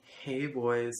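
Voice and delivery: lightly imitated flamboyant greeting; drawn-out, mildly campy hello in imitation; flamboyant teacher. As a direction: put a touch of flamboyance on it. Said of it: "super flamboyant voice".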